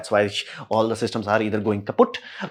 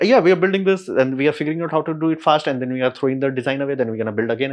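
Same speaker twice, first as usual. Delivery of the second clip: higher, louder, hurried boast; mock eager engineer; 3 semitones higher, 3 dB louder, faster than usual. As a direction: rattle it off eagerly. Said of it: "You're like".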